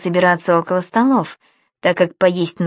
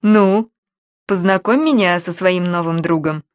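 languid, affected come-on; mincing, affected; 4 dB louder than usual. Acted. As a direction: purr it, coy and mincing. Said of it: "жеманно произнёс Алексей".

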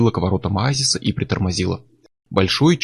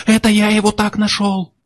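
high, frantic pleading voice; panicked; 11 semitones higher than usual. A narrator's reading. Chuck, terrified, insists to Miller he just found the body. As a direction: blurt it out in panic.

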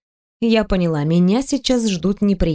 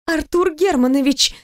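calling out; 6 semitones higher than usual. A narrator's reading. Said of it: "начала я стучать кулаками по его спине".

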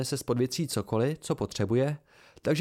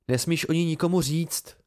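forceful warning, stress on nikomu, a bit louder; blurted emphatically; 5 semitones higher, 3 dB louder than usual. A narrator's reading. Young man warning master Elodin to keep the secret, emphatic and blurted. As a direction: blurt out the order harder than meant. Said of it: "Vyhrkl jsem to důrazněji".

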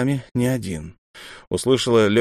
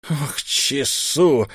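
scoffing; 5 semitones higher, much slower than usual. A narrator's reading. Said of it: "хмыкнул наставник".

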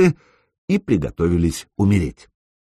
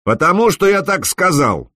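higher, hard commanding voice; steely command; 9 semitones higher than usual. A narrator's reading. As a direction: put steel in the voice. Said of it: "Санёк добавил в голос металла".

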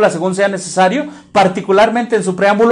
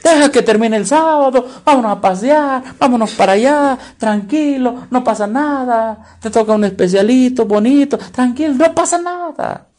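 mock carefree churchgoer; 3 semitones higher than usual. Preacher mimics complacent churchgoers.

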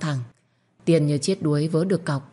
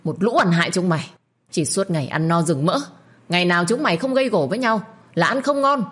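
hissing rage; 2 semitones higher than usual. Acted. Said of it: "sau đó rít lên".

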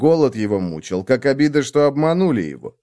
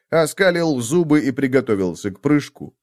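plain reading voice

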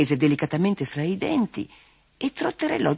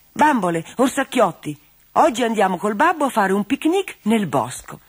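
higher, louder, bright call to the toys; cheerful announcement; 5 semitones higher, 4 dB louder than usual. Acted. Girl Marilena telling her toys about the picnic, cheerfully louder. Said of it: "Un giorno Marilena disse".

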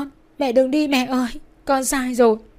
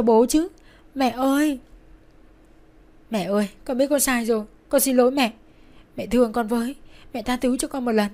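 raised, urgent pleading; frantic begging; 4 semitones higher, 3 dB louder than usual. A narrator's reading. Daughter clinging to dying mother's bed, begging. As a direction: beg desperately, plea upon plea. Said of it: "van xin rối rít".

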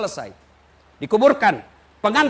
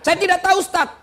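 asking congregant; 8 semitones higher, 4 dB louder than usual. Retold or imitated. Asker voiced in sermon.

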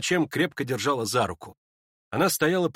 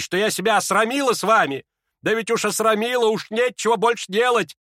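higher, indignant scolding; scolding old lady; 9 semitones higher, 4 dB louder than usual. Acted. Lizaveta berates Ippolit, sharp indignant scolding. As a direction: tear into the young men.

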